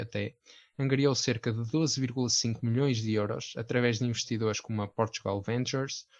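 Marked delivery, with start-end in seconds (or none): 4.9-6.1 Portugal said with an English accent. Real, not acted. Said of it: "eu agora disse Portugal com sotaque inglês".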